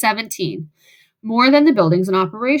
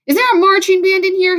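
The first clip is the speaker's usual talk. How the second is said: high, raised calling voice; 8 semitones higher, 5 dB louder than usual. A narrator's reading. Henry greeting a girl stomping into the soda shop, calling out. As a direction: call it out across the shop. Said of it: "Henry called".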